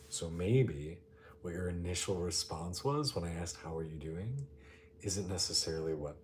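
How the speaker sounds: quiet, calm meditation voice with long pauses; guided meditation. Real, not acted. Guiding listeners to notice how they are, calm meditation voice. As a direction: invite listeners inward, gently.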